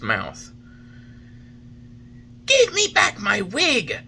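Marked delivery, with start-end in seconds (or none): 2.5-4.0 higher, louder surly shout. Acted. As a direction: demand the wig back. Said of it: "shouted Master Antonio in a surly voice".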